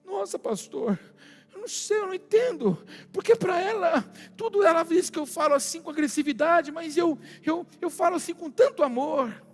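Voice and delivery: lightly mock plaintive husband; mimicked bewildered husband. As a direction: imitate a baffled husband pleading his case. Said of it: "ele olhou pra mim e falou assim".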